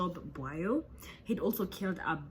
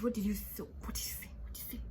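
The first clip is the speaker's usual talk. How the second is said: fading menace; 3 semitones higher, 6 dB quieter, much faster than usual. Retold or imitated. Mock threat before killing.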